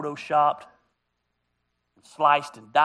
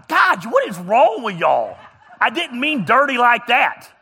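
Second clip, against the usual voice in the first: laughing protest; 5 semitones higher, 8 dB louder, slower than usual. Real, not acted. Crowd laughs at his word.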